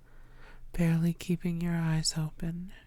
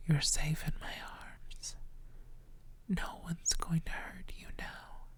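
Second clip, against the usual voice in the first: fading whisper; 9 dB quieter than usual. Acted. Vampire soothing her sleeping partner, whisper fading out. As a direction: whisper trailing away softer and slower.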